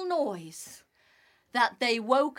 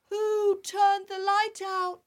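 small frog voice; 7 semitones higher than usual. Acted. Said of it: "said the little frog".

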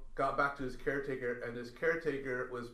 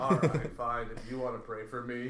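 grudging, laughing give-in; a mock reluctant okay, laughing; reluctant giving in; 2 semitones lower, 3 dB louder than usual. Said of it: "he relented".

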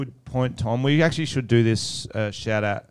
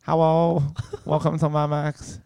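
higher-pitched mock Asian-accented server greeting; 3 semitones higher than usual. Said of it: "I don't know what accent that was".

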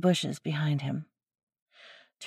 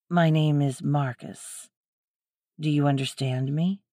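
gentle, soothing; 3 semitones lower than usual. A narrator's reading. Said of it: "in a soothing voice".

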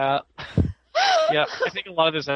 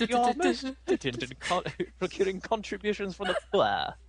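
cartoon villain voice; 10 semitones higher, slower than usual. Acting Robin Hood villains.

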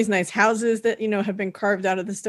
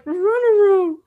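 loud high mock yell; panicked cartoon yell; 12 semitones higher, 7 dB louder, slower than usual. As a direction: shout it like a scared cartoon dog. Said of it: "he's like".

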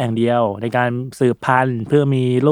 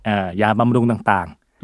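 slow explanation; much slower than usual. Shown as a demonstration. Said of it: "ยาโป๊".

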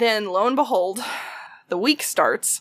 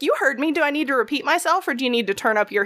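sassy comeback; 4 semitones higher, faster than usual. Retold or imitated. Sassy comeback to old man.

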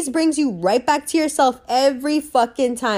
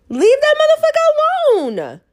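exasperated holler; 4 dB louder than usual. Real, not acted. Scolding women who chase a guy's attention, exasperated holler. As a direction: holler it out, stretched and high.

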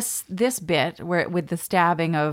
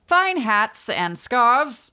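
higher, louder, drawn-out mock shopkeeper; shopkeeper's sales call; 5 semitones higher, 4 dB louder, much slower than usual. Co-host playing the imagined haberdasher, slow put-on sales call. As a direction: slowly hawk the wares in a put-on voice. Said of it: "I picture him having a haberdashery".

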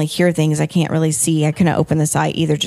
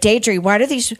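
pained high scream breaking off; a screaming cry of pain; retold scream; 6 semitones higher than usual. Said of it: "Oh, she started screaming".

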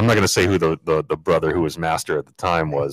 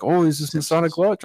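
imitating a Russian accent, much higher pitched; mock Eastern Bloc accent, pitched way up; thick Russian accent; 12 semitones higher than usual. Stranger at the lodge asking questions, high mock Russian accent. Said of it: "very thick Russian accent".

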